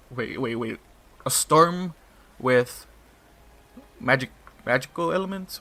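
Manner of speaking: stunned, spelling it out. Real, not acted. Reader reacting to the plot twist, loud surprise. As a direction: caught off guard by the idea.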